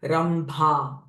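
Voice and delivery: "Rambha" with a breathy, aspirated bh; mahaprana bh. Shown as a demonstration. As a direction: push breath through the bh in "Rambha". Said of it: "Even bh sound is a mahaprana sound". ("Rambha" said carefully, bh strongly aspirated)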